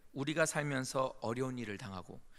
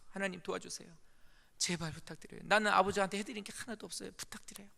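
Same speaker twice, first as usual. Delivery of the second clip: quieter, fading repeat of the plea; softer, more hushed imploring of God; softer pleading prayer; 4 semitones higher than usual. Retold or imitated. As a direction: plead again more softly. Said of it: "막 기도했어요".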